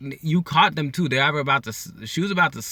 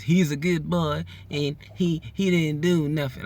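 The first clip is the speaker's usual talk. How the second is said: higher-pitched, lightly faked Chicago accent; attempted Chicago accent; 6 semitones higher than usual. Wife excusing her husband, mock Chicago accent. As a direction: plead his innocence in a bad Chicago accent. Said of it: "with the Chicago accent".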